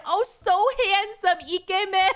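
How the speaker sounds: a hint of a swooning cashier; cooing shop clerk. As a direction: mimic the clerk drawing out the compliment. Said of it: "she was like".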